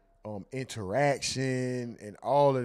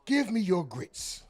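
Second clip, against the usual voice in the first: higher, slow mock preacher demand; imitating preacher; 7 semitones higher, slower than usual. Repeating the clip, a slow high mock demand. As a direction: drag it out like the speaker in the clip.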